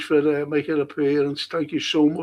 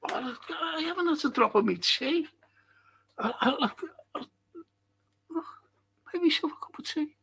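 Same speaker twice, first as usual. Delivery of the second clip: reading comment in voice; 10 semitones higher, 9 dB quieter, faster than usual. Retold or imitated. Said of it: "And Stephen Coughlin".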